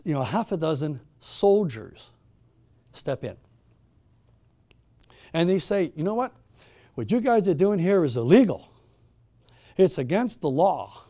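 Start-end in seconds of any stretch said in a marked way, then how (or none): 6.0-11.0 loud, commanding soldier announcing the raid; a soldier warning the worshippers, loud and commanding; stern soldier. Acted. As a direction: bark it like an officer breaking up a meeting. Soldiers raid a secret worship meeting.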